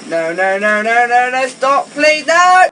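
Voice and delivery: rising panicky cries of no; panicked pleading. Acted.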